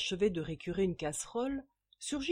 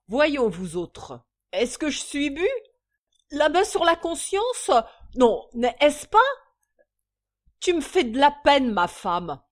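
mock-solemn, louder maudlin plea; tearful whine; 6 semitones higher, 7 dB louder than usual. A narrator's reading. Drunk father whining to his children, maudlin. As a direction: play the wronged drunk, teary. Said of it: "larmoya-t-il".

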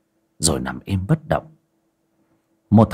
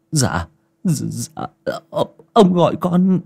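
timid reply; 9 semitones higher, slower than usual. Acted. Frightened servant answers master.

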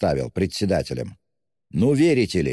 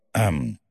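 throat clearing; 5 semitones lower than usual. A narrator's reading. Flustered hero clears throat mid-confession.

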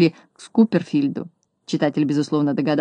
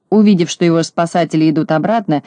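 ordinary delivery

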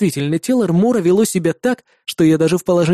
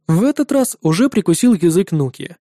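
plain reading voice

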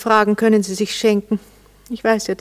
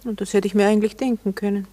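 sarcastic; faster than usual. Acted. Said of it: "Nur nicht sarkastisch werden".

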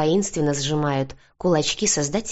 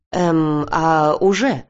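a moderate outburst after a hesitant start; startled cry; 5 dB louder, much slower than usual. A narrator's reading. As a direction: exclaim it louder, caught off guard. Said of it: "выкрикнул он".

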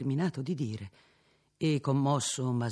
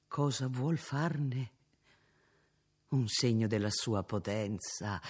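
solemn and serene. Acted. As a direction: speak with placid, inspired solemnity. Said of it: "con un tono solenne, come di placida ispirazione".

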